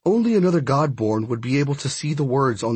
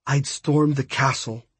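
measured resolve. Acted. First take, answering the hypothetical.

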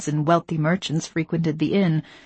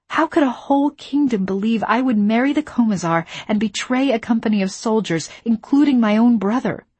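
anguished; 5 semitones higher, 4 dB louder than usual. Acted. Anguished outburst about betrayal.

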